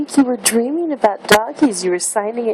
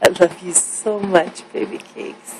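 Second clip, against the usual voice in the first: sweet nothings; 5 semitones lower than usual. Real, not acted. Mother cooing to waking baby.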